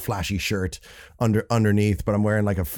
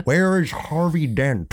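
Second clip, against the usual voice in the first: slow, higher villain voice; Heath Ledger's Joker; 5 semitones higher, slower than usual. Acted. Quoting the film for co-host, Joker voice. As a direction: draw it out like a menacing movie villain. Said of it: "I did the Heath Ledger voice".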